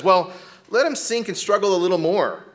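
mock harsh parent.

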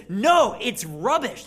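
a sudden loud "No", then firmer on "rubbish"; emphatic no. Retold or imitated. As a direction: bark out the refusal, then settle. Paul rejecting his own worth.

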